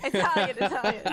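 hammed-up Italian accent; a cheesy fake Italian accent; mock Italian accent. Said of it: "this horrible, horrible accent".

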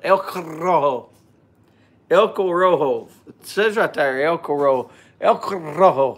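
El Corojo with a trilled r, "el ko-RRo-ho"; rolled R. Shown as a demonstration. Reading the band aloud, rolling the r in El Corojo. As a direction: lift your head and roll the r in Corojo. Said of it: "I gotta hold my head up to do it".

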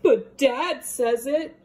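put-on child protest. David protests.

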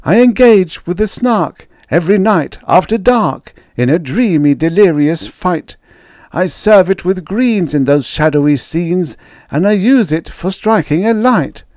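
very high, loud, fearful pleading; baker's dread. Acted. Baker insisting on repeating his fear, high and loud. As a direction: beg them to hear, full of dread.

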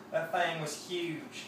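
slow drawled Southern twang, thing said like thang; Southern drawl, mock accent. Shown as a demonstration. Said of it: "The twang thang".

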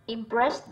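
impressed stressed on "pressed"; second-syllable stress. Shown as a demonstration. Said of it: "rơi vào âm hai". (nhấn âm tiết hai của impressed)

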